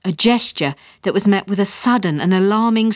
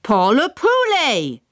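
put-on English-accented French; 8 semitones higher, slower than usual. A narrator's reading. Father adds French.

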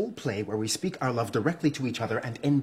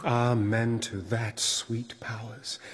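Othello's hushed prayer; 2 semitones lower, slower than usual. Acted. Othello answers his bride in rehearsal, slow and reverent. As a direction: let the amen slow and sink away.

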